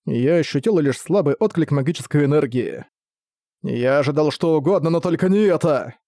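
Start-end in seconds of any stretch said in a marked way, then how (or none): 3.6-6.0 groaning teacher. Acted. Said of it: "стон учителя".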